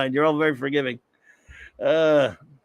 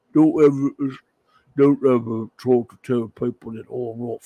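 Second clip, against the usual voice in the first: put-on light English accent as Alan Moore, grumbling; a rough northern English accent playing an offended writer; Alan Moore impression. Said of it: "I need a lot of work on my Alan Moore".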